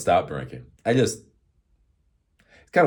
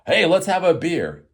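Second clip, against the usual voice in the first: mock friend offer; 10 semitones higher, 7 dB louder than usual.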